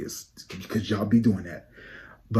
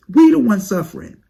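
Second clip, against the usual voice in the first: loud complaint; 10 semitones higher, 9 dB louder than usual. Acted.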